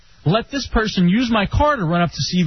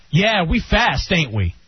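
sassy attitude; slower than usual. Retold or imitated. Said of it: "she's giving me attitude".

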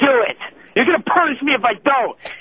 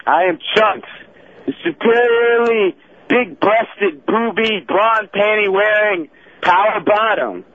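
wrestling promo. Pretend. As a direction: announce yourself like a heel wrestler. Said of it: "cut a promo right now".

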